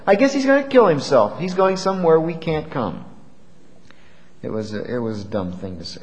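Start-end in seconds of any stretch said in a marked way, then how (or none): 0.1-3.0 mildly mocking, higher-pitched retort; facetious. Preacher quoting the Jews' jibe about Jesus, lightly facetious. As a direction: imitate scoffers making a flip joke. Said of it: "in a facetious tone of voice".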